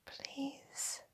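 barely audible, pleading whisper; whispered plea. A narrator's reading. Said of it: "I whisper".

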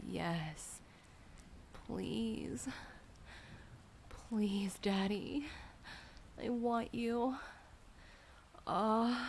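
usual speaking voice

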